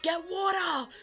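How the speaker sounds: high, loud urgent command; urgent shout. Retold or imitated. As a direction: bark the order to fetch water. Friend urging in chicken emergency.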